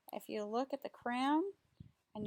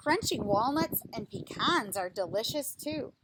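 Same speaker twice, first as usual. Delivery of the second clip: slow, lively picture-book reading voice; reading to children; 4 dB louder, slower than usual. Acted. Reading a tree picture book to children, lively storytime voice. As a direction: read it out like a storytime for little kids.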